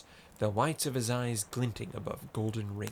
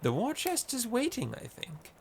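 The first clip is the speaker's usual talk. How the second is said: urgent call; 13 semitones higher, 3 dB quieter than usual. Acted. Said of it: "cried Maiko".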